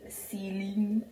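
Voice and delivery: put-on light Zimbabwean accent on one word. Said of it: "That's Zimbabwean accent, guys".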